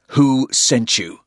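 slow, loud, hard question; slow menacing question. A narrator's reading. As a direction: demand an answer, menacing. Porter interrogates.

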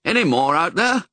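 mild call out the door. A narrator's reading. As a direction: call out a question into the dark. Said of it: "called into the night".

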